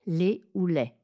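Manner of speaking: Les fermé puis les ouvert; deux prononciations. Shown as a demonstration. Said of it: "on le prononcera les avec un E". (les en é et en è)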